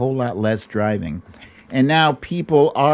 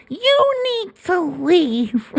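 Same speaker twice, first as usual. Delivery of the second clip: mock stern quip; slower than usual. Joking at caller Cindy.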